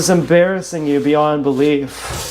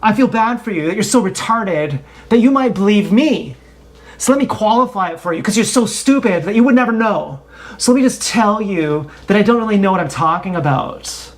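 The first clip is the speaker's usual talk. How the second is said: sarcastic hedging; faster than usual. Retold or imitated. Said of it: "Rather than saying".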